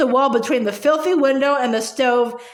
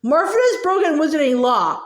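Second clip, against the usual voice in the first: mocking Ogden's pompous sing-song; pompous sing-song mimicry; 3 semitones higher than usual. Gaunt mocking the official, pompous sing-song. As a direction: parrot his words in a pompous lilt. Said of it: "imitated Ogden's voice, making it pompous and sing-song".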